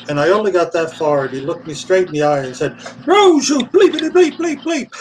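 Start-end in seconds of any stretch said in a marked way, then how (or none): 3.1-4.9 high, loud imitation of the director's yell; high shouted callback of the director; mock scream. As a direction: throw the old insult back, shouting high. The speaker quotes the director's yell.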